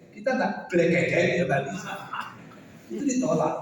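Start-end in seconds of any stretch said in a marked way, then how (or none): 0.7-1.1 black cat with a thick Javanese accent; Javanese-accented English. Shown as a demonstration. Teacher mocking Javanese speakers' English, Javanese accent. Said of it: "kalau kita orang Jawa bahasa Inggris".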